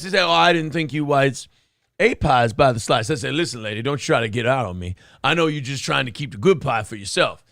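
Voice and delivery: put-on comic old comedian storytelling voice; P D Green voice. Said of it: "I'll do P D Green".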